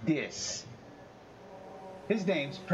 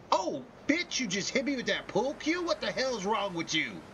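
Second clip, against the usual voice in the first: much higher squeaky outraged toy voice; a tiny bear shocked at being shot; teddy bear Percy talking; 8 semitones higher than usual. Pretend. Percy the teddy bear scolding a shooter, high squeaky outrage. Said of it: "have him talking like".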